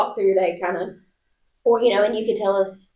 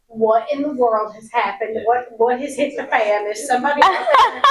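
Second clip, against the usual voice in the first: retold panic; 3 semitones higher than usual. Coworker retelling a sudden interruption, mock-panicked. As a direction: play up the alarm, then break up laughing. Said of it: "I went into panic mode".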